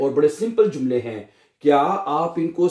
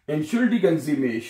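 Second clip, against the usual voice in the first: slow model phrase; much slower than usual. Shown as a demonstration. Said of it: "teacher models phrase slowly".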